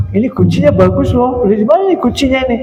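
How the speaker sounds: high-pitched, nosy admiration; gushing guest. Acted. Mimics guest admiring a lock.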